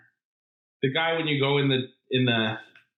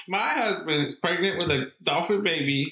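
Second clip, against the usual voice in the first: put-on Southern accent; 4 semitones higher than usual. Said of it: "going in hard on the Southern accent".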